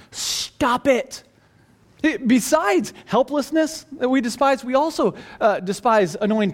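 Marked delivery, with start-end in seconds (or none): 0.1-1.2 acted, held-in annoyance; annoyed. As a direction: tell them off, mildly fed up. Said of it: "you just get really annoyed with them".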